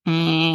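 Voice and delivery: short game-show buzzer eh; buzzer sound. Shown as a demonstration. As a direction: buzz him out like a quiz buzzer. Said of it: "I'm just going to make an eh sound".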